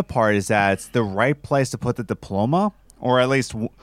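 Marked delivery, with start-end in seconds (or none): 3.0-3.7 words broken by a burp. Real, not acted. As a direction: burp cuts off the word. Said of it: "my goodness, burp gang".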